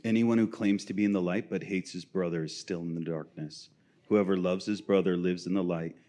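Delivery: reading from First John; scripture reading. Acted. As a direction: read the verse out plainly and firmly. Reads scripture.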